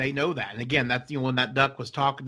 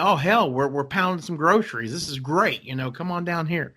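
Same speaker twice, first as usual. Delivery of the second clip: voicing a duck; 4 semitones higher than usual. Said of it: "And then".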